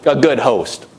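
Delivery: hammed-up nagging whisper of the adversary; nagging enemy voice. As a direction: pester her like a nagging tempter. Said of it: "he's probably telling Martha".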